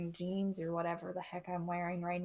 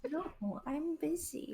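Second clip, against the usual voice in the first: high, soft cooing; cooing aside; 8 semitones higher, 5 dB quieter, much slower than usual. Real, not acted. Player shooing away the baby mid-game, high cooing. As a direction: gently put off a little one in a high voice.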